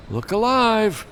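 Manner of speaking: captain rallying his men; barked order. A narrator's reading. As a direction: snap the troops awake. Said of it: "Captain Stanley ordered".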